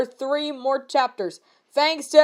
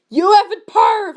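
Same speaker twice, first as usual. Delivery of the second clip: mock evil laugh; 6 semitones higher, 6 dB louder than usual. A narrator's reading. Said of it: "I said, laughing with depths of evilness".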